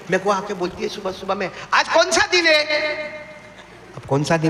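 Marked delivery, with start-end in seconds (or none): 1.7-2.6 higher, lilting wife's question. Retold or imitated. Wife asking her husband in the morning, lightly voiced. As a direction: ask it as his wife would, lightly teasing.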